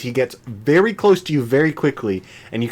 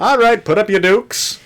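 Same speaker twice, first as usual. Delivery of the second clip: tough guy voice; 11 semitones higher, 6 dB louder than usual. Acted. Mock challenge, far and slow.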